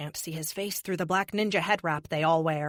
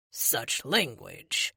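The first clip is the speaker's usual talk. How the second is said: slow, smug and lower; 5 semitones lower, much slower than usual. A narrator's reading. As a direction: drawl it with smug disdain. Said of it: "the android says smugly".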